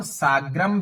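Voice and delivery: "साग्रम" closed on an m; final-m variant. Shown as a demonstration. Teacher offers another reading, "साग्रम" ending in m. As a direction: end "साग्रम" on m with no vowel after. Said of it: "भी बोल सकते हैं".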